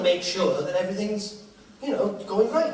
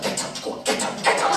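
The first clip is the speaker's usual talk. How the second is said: whisper. Retold or imitated. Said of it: "She went".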